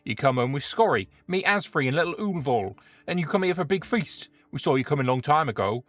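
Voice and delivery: lightly voiced jolly troll; a hint of a friendly troll. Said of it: "the troll voice".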